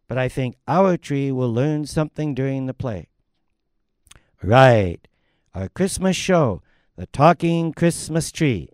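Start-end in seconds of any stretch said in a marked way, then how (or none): 4.4-8.7 loud announcing. Acted. MC announcing to audience.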